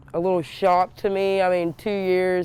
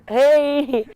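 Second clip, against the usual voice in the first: calling out; 8 semitones higher, 6 dB louder than usual. Retold or imitated. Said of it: "I'm like".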